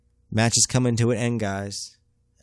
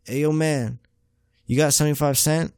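homeless man voice; 5 semitones higher than usual. Retold or imitated. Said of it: "He's like".

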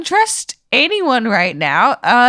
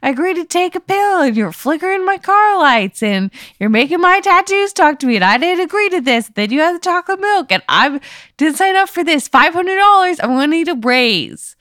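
higher, fast panicky rant; freaked-out rant; 5 semitones higher than usual. Acted. Player yells at the caller about her bent reality, higher and fast. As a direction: complain like you're at the end of your rope.

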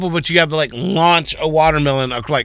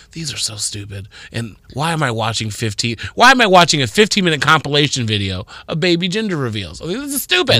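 inner grumble. Retold or imitated. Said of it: "in my head I was like".

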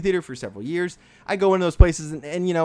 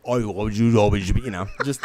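distorted serial killer robot voice; calm psychopath; 6 semitones lower than usual. Pretend. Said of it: "in a distorted serial killer robot voice".

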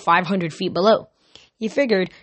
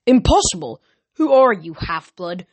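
sharp raised shout of disbelief; villain's furious outburst; 4 dB louder than usual. Acted. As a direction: bark it out, outraged.

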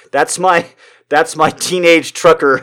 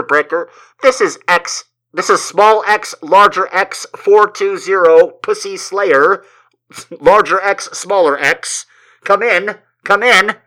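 put-on teen trucker CB call; 6 semitones higher than usual. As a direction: play a cocky teen trucker on the CB. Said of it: "It's like".

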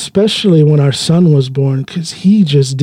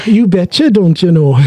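mock Minnesota accent; 3 semitones higher than usual. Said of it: "you Minnesotans definitely have a way of talking".

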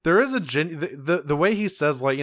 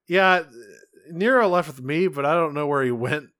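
mock Sid; 3 semitones higher, 4 dB louder than usual. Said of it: "Sid just goes".

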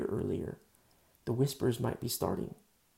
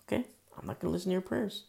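stern Lord; 6 semitones higher, faster than usual. Retold or imitated. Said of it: "You wanna be a jerk to your wife?".

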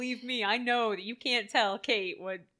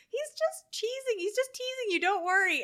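mock reassuring quote; 12 semitones higher, 4 dB louder than usual. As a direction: soothe like the character, pitched up. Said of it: "they're like".

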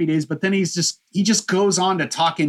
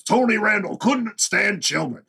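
put-on drawn-out, higher-pitched Bronx accent; Gary Marshall's Bronx accent; 5 semitones higher than usual. Podcaster mimicking the author reading his audiobook, Bronx accent. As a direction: imitate an audiobook read in thick Bronx accent. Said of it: "he reads it and his accent".

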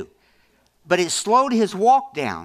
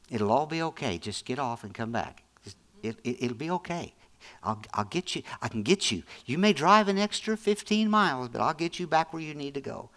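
softer, tender reassurance; calm a worried driver, gently; reassuring God; 3 dB quieter than usual. Acted. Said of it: "God doesn't even talk to us that way".

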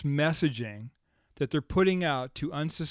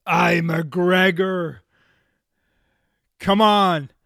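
mock Scottish brogue; 2 semitones higher, 8 dB louder, much slower than usual. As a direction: bellow it in a bad Scottish brogue. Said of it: "some actor screaming at you in a bad brogue".

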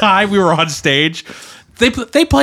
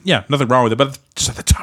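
ordinary talk, nothing marked

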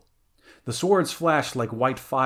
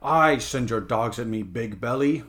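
sneering; 4 dB louder than usual. Acted. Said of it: "sneered Conan with bitter scorn".

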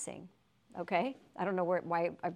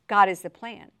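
emphatic declaration; 8 dB louder than usual. Real, not acted. Preacher repeats emphatic answer.

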